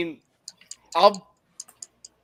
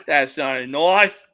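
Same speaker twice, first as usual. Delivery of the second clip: lower, dismissive setup with a rising end; alligator hunter quote; 5 semitones lower than usual. Retold or imitated. Quoting the alligator hunter about a tiny knife, low rising dismissal. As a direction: wave off the little blade like a bush hunter. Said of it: "the alligator hunter".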